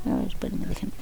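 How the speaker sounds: whispered hold-on; quick whispered pause. Real, not acted. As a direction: breathe it out while looking. Aside while searching.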